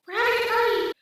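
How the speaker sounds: high, very loud mock yell; party shout. Friend to the man through the vent, shouting.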